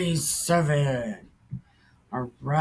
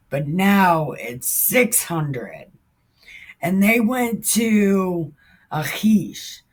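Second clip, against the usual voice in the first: measured, formal Bible reading; steady reading of the verses; scripture reading; 3 dB louder than usual. Acted. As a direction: read the verses steadily and solemnly. Reads scripture aloud.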